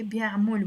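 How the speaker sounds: بيعمل ending in -mol; rounded o in the last syllable of بيعمل. Shown as a demonstration. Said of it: "with the O".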